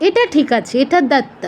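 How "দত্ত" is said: "দত্ত" as dat-ta, no glide; doubled t. Shown as a demonstration. Teacher approving the third word, "দত্ত" as dat-ta. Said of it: "এটা দ্বিত হবে".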